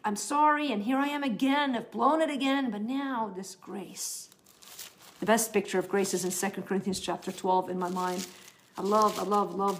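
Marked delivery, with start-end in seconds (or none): 0.0-4.3 contrite prayer. Retold or imitated. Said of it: "go back to the table and say".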